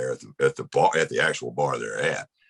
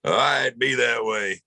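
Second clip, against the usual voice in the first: Dave's reply; 7 semitones higher, slower than usual. Retold or imitated. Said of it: "I'm like".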